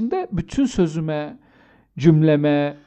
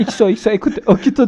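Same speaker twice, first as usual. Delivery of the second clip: cutesy sign-off; 2 semitones higher, 5 dB louder than usual. Retold or imitated. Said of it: "deseydi mesela".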